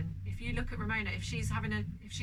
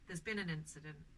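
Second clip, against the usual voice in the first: grave announcement; 5 semitones lower, 9 dB quieter than usual. Retold or imitated. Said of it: "these are the words I said".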